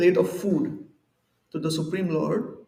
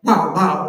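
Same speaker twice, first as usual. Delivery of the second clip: dog bark imitation; 2 semitones lower, 7 dB louder than usual.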